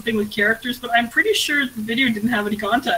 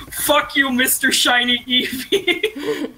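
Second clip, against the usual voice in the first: laughing; 3 semitones higher, much slower than usual. Retold or imitated. Reading a funny quote aloud.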